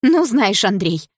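sharp, high-pitched outburst; indignant exclamation. A narrator's reading. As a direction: cry out in protest. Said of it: "снова выкрикнула мама".

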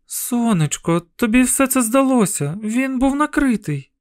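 tender mother. A narrator's reading. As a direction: soothe him, it was only imagined. Mother gently reassuring son.

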